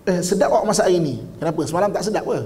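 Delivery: lightly acted cynical jab; sarcastic husband. Husband commenting on wife's cooking, mildly sarcastic. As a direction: needle with mock praise. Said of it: "sinis ni mulut dia sarkastik".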